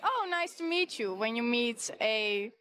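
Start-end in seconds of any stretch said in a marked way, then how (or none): 0.0-1.1 higher, overly sweet greeting; imitating an eager American greeting; mock gushing American. Dutch woman mimicking an American meeting her, gushing. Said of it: "they're like".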